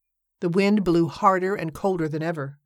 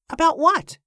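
higher, louder voice of a simple working man; simple Mattie; 12 semitones higher, 3 dB louder than usual. Acted. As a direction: play the innocent, offhand. Mattie's voice in dialogue.

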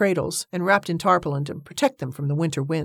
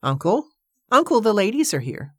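calling out; 5 semitones higher than usual. Acted. Calling out to uncle.

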